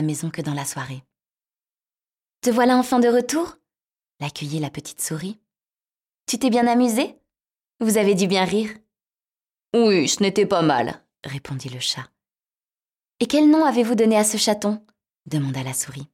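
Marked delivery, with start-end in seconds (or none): 2.4-3.6 high, bright little mouse; squeaky mouse voice. Acted. Mouse voiced in fairy tale. 6.3-8.7 high, bright little mouse; squeaky mouse voice. Acted. Mouse voiced in fairy tale. 9.7-11.1 cat voice. Acted. Cat voiced in fairy tale. 13.2-14.8 high, bright little mouse; squeaky mouse voice. Acted. Mouse voiced in fairy tale.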